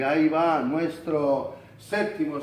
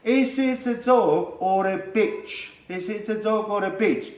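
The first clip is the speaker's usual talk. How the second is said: asking a neighbour; 4 semitones higher than usual. Pretend. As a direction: ask it innocently, stressing dog. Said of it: "you ask".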